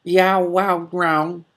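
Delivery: high, loud whiny cat yowl; hammed-up cat complaint; complaining yowl. A narrator's reading. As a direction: wail like a put-upon tomcat. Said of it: "in a complaining tone".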